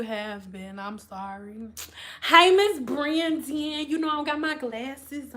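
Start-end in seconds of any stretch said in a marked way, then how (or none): 2.2-3.9 slow, stretched greeting; playfully drawn-out name. Real, not acted. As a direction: draw out "Brandon" as you greet her. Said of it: "saying your last name like that".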